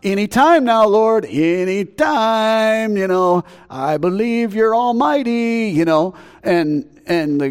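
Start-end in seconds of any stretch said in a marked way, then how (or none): 0.0-5.7 anxious pleading. Retold or imitated. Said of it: "I'd been going".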